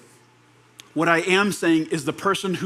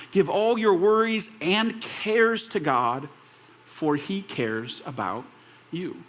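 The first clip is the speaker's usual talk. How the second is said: solemn scripture reading; slower than usual. Acted. Pastor reading First Peter to the congregation, slow and solemn. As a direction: let each phrase land, unhurried and reverent.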